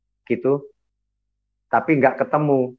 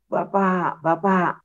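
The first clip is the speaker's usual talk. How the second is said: retold calling out; 6 semitones higher, 3 dB quieter, much slower than usual. Son calling his father in a dream, mild retold call. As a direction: imitate calling for father, softly pitched up. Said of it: "Saya panggil-panggil".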